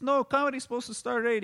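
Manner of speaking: high, loud stubborn shout; owner yelling. Retold or imitated. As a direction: insist over the crowd. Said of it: "he says".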